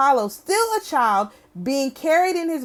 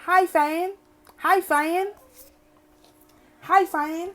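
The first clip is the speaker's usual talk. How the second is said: a lightly put-on Southern country accent, pitched up; 6 semitones higher, slower than usual. Imitating how the country man shouted it in a Southern country accent. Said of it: "Had a contra accent".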